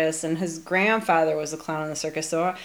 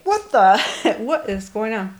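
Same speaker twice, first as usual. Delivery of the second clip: retold startled yell. Co-host retelling their reaction to that scene, mock startled yell. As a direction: act out blurting it, then ease off. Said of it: "I did actually yell that".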